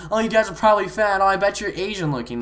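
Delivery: high, quick mocking jibe; mock taunting player. Storyteller imitating the player attacking the group, mock taunt. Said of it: "he's attacking us".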